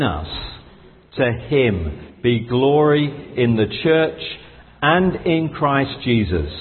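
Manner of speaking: slow, measured reading of the verse; solemn scripture read to the congregation. Acted. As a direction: read it aloud like a blessing. Reads Ephesians slowly to congregation.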